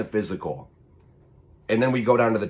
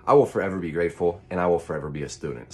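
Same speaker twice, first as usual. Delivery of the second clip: too much caffeine; 3 semitones lower, faster than usual. Real, not acted. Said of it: "so caffeinated right now".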